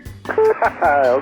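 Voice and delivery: laughing. Real, not acted. Controller amused by seating joke.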